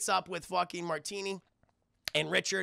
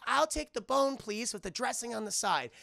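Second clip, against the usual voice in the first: lightly voiced reindeer, pitched up; a hint of a higher character voice; Olive; 4 semitones higher than usual. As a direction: order politely in a higher voice. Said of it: "Olive's like".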